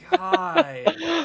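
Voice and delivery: high, loud delighted shriek; excited shriek. Real, not acted. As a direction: shriek it out with glee. Overjoyed cry at friend's build.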